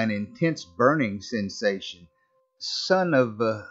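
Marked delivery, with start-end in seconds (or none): 2.6-3.7 slow, drugged slur; words dragging as the drug takes hold; slurred. Acted. Narrator slurs after a needle in the neck. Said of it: "I slurred".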